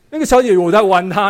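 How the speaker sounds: chuckling through the words; laughing while telling. Real, not acted. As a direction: laugh as you tell it. (边笑边讲)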